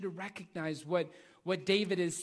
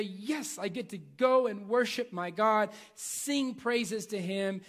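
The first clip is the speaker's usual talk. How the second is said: eager, higher-pitched acted worshipper; joyful gratitude; 4 semitones higher, 5 dB louder than usual. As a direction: proclaim it gladly with a raised voice. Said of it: "be joyful and grateful".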